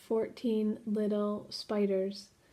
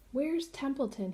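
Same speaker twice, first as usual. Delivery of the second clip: higher, sharp demand; 5 semitones higher than usual. Acted. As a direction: insist on an answer now. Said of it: "he demanded".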